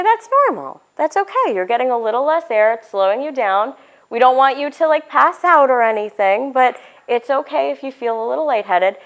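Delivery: put-on calm a worried kid gently; reassuring. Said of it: "And you say".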